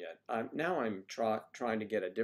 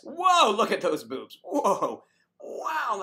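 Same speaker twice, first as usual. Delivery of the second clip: leering voice; 11 semitones higher, 10 dB louder, much slower than usual. Pretend. Gawking at a picture on screen.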